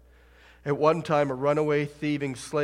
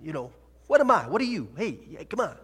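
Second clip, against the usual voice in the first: higher, much louder Brooklyn wiseguy rant; Brooklyn accent; 7 semitones higher, 14 dB louder than usual. Retold or imitated. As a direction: stammer it out like a pushy Brooklyn guy. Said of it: "He wasn't from Brooklyn".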